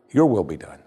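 "Your" leads firmly, "will be done" falls away; stress on Your. Shown as a demonstration. Preacher asks if they pray like that, stressing "Your". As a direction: put the weight on "Your" and let the rest drop. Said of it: "The word we should emphasize is your".

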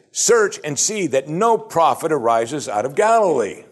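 insulting. Acted. Pharisees schooling the teacher of Israel, insulting. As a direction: lecture him as if he were ignorant. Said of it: "They're insulting him as best they can".

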